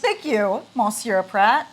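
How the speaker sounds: playful high mock-French thank-you; mock formal thanks. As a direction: gush it with a hint of French. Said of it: "I was like".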